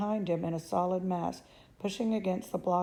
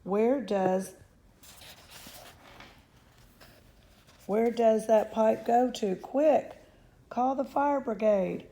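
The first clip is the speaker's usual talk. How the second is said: higher, urgent; mother panicking, higher and louder; panicked demand; 4 semitones higher, 3 dB louder, slower than usual. Acted.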